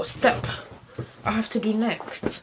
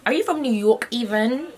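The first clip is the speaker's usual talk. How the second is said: playful put-on New York challenge; lightly hammed-up New Yorker; mock New York accent; 3 semitones higher than usual. Vlogger redoing a TikTok line, mock New York accent. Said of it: "I like New York accent".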